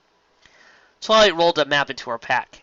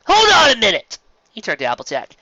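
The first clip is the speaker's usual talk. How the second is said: much higher, loud alarmed protest; Spike protesting; 9 dB louder than usual. Acted. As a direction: protest that he's coming too.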